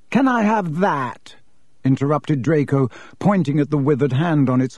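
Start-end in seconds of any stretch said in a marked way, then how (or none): 0.1-1.4 put-on eager boy. Draco asking for the hand.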